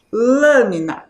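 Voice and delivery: "Lâmina" with a long, strong LÂ; stress on first syllable. Shown as a demonstration. Teacher confirms the strong syllable to pupils, first syllable of "Lâmina" stressed. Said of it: "É a sílaba lã".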